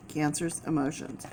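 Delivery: a hushed repeat of the first take; soft echo. Real, not acted. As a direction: echo the phrase quietly under the breath. Repeating a key phrase softly.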